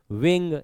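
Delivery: विंग said in a single beat; विंग as one whole syllable. Shown as a demonstration. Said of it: "एक ही बार में बोलते हैं".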